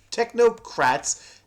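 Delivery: "technocrats" slowed, each syllable spelled out; tongue twister. Shown as a demonstration. Testing the tongue twister on viewers, slow careful "technocrats". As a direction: carefully sound out "technocrats" slowly. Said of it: "it's a tongue twister".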